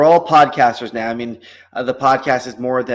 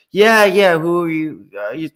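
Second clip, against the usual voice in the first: a hammed-up psychic, higher and louder, groping for a name; mock psychic guessing at the client's family and friend, louder as it goes; psychic fishing; 4 semitones higher, 4 dB louder than usual. Psychic to client, fishing for names in a hammed-up higher voice.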